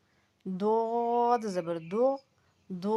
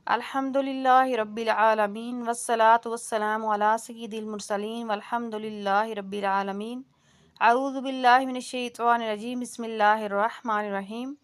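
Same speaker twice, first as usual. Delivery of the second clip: measured Arabic opening recitation; تلاوت کا انداز; formal recitation. Acted. Opening recitation before the lesson.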